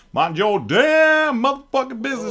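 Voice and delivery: high, loud yell through laughter; laughing shout. Retold or imitated. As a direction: yell it while cracking up.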